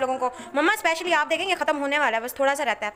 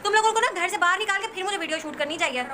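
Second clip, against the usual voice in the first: laughing scold; 4 semitones higher than usual. Real, not acted. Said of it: "laugh cry".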